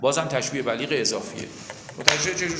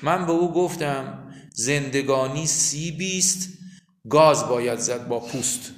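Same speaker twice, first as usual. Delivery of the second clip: poem recitation; slower than usual. Acted.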